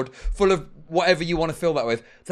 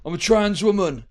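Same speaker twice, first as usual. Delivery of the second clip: mock commenter voice; 4 dB louder than usual.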